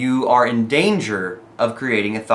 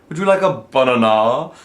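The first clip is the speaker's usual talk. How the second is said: "banana" said BA-na-na, the first syllable punched; louder repeat with the wrong stress on "banana"; 4 dB louder than usual. Retold or imitated. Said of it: "didn't accent the right syllable".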